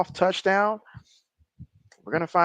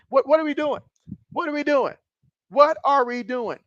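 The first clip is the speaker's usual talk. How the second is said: higher, pleading what are we doing; exasperated disbelief; 5 semitones higher than usual. Real, not acted. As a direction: throw up your hands at the play call. Exasperated at bad play call.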